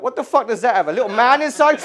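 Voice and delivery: exasperated, rising disbelief; mock incredulity. Customer mocking the pricier dehumidifier, incredulous. Acts out baffled reaction to saleswoman.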